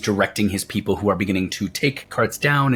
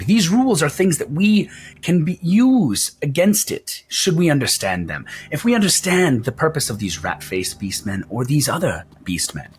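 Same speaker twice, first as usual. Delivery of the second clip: Wolfgang, showman's voice. Acted. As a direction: proclaim it like a pompous ringmaster, pitched up. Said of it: "he goes".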